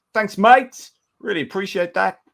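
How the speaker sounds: a cheery Aussie thank-you in a hammed-up Australian twang; Australian accent. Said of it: "Was that an accent you were attempting there".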